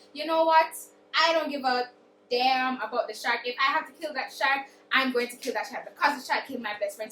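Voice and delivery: loud, fierce declaration of revenge; defiant vow. Retold or imitated. Sabine swears to kill the shark that took her friend, loud and fierce.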